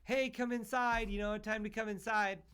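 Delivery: a hint of a mother calling her son indoors; mom calling kid in. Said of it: "and his mom's like".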